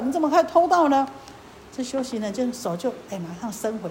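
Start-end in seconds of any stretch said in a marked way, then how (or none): 0.0-1.1 scolding with the weight on 可以. Acted. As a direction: rebuke leaning on 以, falling at the end. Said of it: "这个莲花神就骂他".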